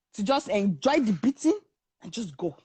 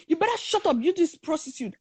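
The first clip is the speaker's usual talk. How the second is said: angry insult; 5 semitones higher than usual. Retold or imitated. Retold man insults the friend.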